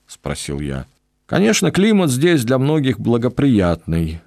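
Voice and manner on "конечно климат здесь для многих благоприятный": a lightly raised, glad reply; cheerfully agreeing with his companion; joyful. Acted. Pedro gladly answers the traveller, joyful and a bit higher. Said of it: "радостно кивнул Педро".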